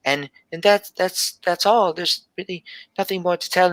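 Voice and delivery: a hint of a shy seven-year-old telling her dream; little girl Gelby.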